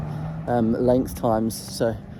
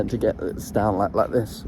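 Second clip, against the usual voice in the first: depressed larynx; 2 semitones lower, 4 dB quieter than usual. Shown as a demonstration. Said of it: "just using all these muscles".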